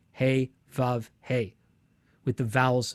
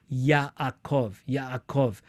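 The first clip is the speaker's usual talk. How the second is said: slow Yaakov; much slower than usual. Shown as a demonstration. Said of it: "you could pronounce it slowly".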